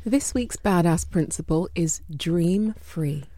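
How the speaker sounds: dream free voice. Shown as a demonstration. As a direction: float the words out gently. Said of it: "that's my dream free voice".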